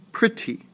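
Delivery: Pretty high on Pre, dropping on ty; falling second syllable. Shown as a demonstration. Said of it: "I go down on the T".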